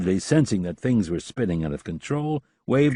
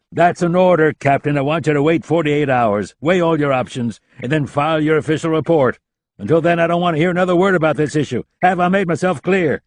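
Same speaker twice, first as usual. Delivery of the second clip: loud, firm command; stern order; 8 semitones higher, 7 dB louder than usual. A narrator's reading. The general orders the captain, loud and firm. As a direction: lay down the law.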